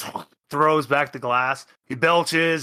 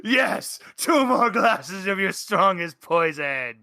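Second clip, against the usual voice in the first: higher, eager shout for more poison; excited order; 4 semitones higher than usual. Acted. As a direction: call for another round with glee.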